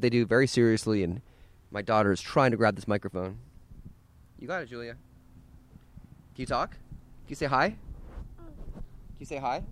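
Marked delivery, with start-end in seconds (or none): 4.4-9.6 soft coaxing. Real, not acted. Dad coaxing toddler at the mic.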